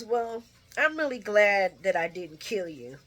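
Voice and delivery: laughing through the line; laughing quote. Retold or imitated. Vlogger laughing while quoting Ava. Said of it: "she says".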